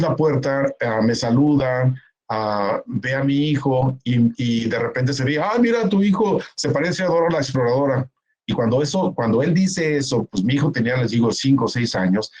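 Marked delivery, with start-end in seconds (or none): 5.4-8.1 teasing uncle. Retold or imitated. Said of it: "se estaban burlando de él".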